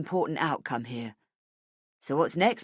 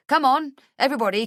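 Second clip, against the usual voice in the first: high, fast, loud call to the room; rally everyone over, quick and eager; cheerful summons to the whole office; 8 semitones higher, 6 dB louder, faster than usual. Acted. Boss calls staff to gather.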